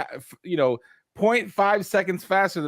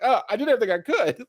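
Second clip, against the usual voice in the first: quoted plea; 7 semitones higher, faster than usual. Retold or imitated. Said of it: "He was like".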